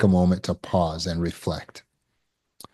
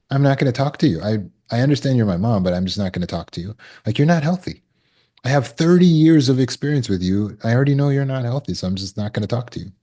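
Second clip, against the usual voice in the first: defiant refusal; 2 semitones higher, faster than usual. Pretend. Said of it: "It takes defiance to say".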